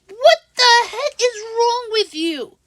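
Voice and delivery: retold shocked reply to the angry host; incredulous outburst. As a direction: ask it as if the words stun you. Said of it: "I'm like".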